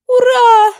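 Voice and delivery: high, loud joyful yell; girl cheers as her friend reappears; cheering shout. A narrator's reading. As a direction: shriek with delight. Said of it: "завопила Эрин".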